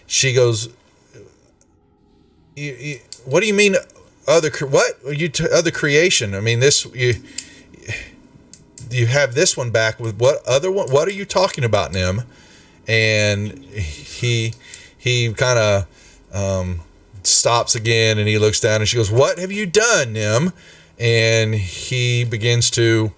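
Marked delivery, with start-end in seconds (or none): 2.6-12.2 mildly flustered, stammering questions; baffled. Acted. Valletta questions Nim about another creation, baffled. 19.1-20.5 pitched-up dismayed question, falling away. Acted. Valletta confronts Nim over what he made, dismayed. Valletta alarmed at Nim's confession.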